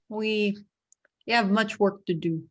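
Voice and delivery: put-on halting, mild Russian-accented reply; attempted Russian accent. Bald hunter replies to Kane in an attempted Russian accent. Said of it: "in a thick Russian accent".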